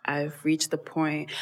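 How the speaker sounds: breathy whispered resignation; whispered aside. Retold or imitated. To herself after swiping, whispered resignation. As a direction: whisper it, worn out. Weary inner voice quote.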